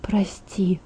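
very soft whisper; whispered apology. A narrator's reading. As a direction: breathe out the apology without voice. Narrated pained apology after hard words.

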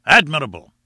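loud delighted cry; exclaiming. A narrator's reading. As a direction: call it out with delight. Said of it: "cried Challenger".

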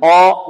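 slow, heavy آ from the back; wrong thick vowel. Shown as a demonstration. Teacher shows what not to say, thickened a. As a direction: say آ as dark, backed aw. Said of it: "لا نقول".

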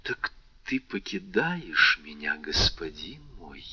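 a touch of a tearful, muffled plea; muffled with tears. Acted. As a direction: ask it through held-back tears, understated. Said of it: "голосом глухим от слёз". (глухо, сквозь слёзы)

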